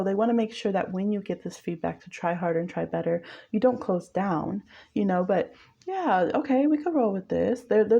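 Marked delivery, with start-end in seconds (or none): 5.9-7.6 easygoing muse. Retold or imitated. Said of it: "the one who's allowing".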